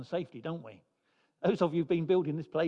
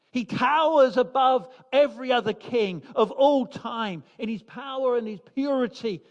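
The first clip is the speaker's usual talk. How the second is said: rising, louder, building proclamation of the King's glory; full preaching; 3 dB louder than usual. Acted. Preacher lifting the congregation to God's majesty, building louder. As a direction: preach it with mounting fervour.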